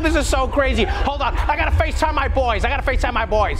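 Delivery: high, gushing starstruck chatter; breathless fan. Pretend. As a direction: still buzzing with excitement. Covid gushing inside Fauci.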